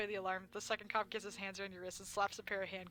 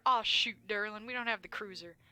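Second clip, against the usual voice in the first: Blubs voice; 7 dB louder than usual. Acted. Blubs, corrected retake.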